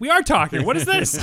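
high loud exasperated retort; mock Moretti. Moretti snapping back at Sonny, high and loud. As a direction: snap back in disbelief.

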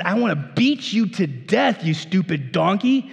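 hammed-up angry threat; a touch of furious master; mild mock rage at the donkey; mock fury. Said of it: "He's so mad at him".

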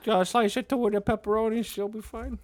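fading into a hushed Danny Aiello; Danny Aiello impression. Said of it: "I'm Danny Aiello".

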